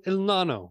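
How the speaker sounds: Nano said "NAH-no"; correct name pronunciation. Shown as a demonstration. Host checking the cigar's name, careful pronunciation. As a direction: say Nano with an open "ah" first. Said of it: "Not No No".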